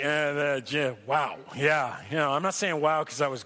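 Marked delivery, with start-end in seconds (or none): 0.0-2.0 lower, hesitant, unimpressed wow; awkward wow. Retold or imitated. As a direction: stall with a reluctant wow. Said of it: "not willing to say".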